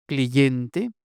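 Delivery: "Cliente" said as "cliyente"; anti-hiatus consonant. Shown as a demonstration. Lecturer quoting a sporadic example, inserted y. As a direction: put a y between i and e in "Cliente". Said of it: "Presencia de una D antiyática en los grupos I E".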